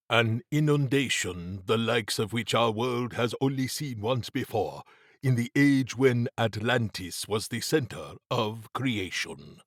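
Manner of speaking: measured, formal warning; lightly voiced Mabati, foreboding. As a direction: lightly play a grave adviser explaining the threat.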